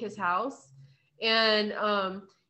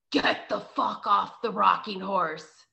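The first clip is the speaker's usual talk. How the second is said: slow, slightly lowered menacing man's voice; deep man's voice; 2 semitones lower, slower than usual. Retold or imitated. Retelling a ghost story to a friend, deep man's voice. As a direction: imitate a deep-voiced man, drawn out slowly. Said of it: "this deep man's voice says".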